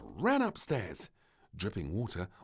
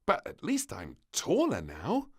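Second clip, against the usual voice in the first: little princess; 7 semitones higher, 7 dB louder than usual. A narrator's reading. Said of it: "she groaned".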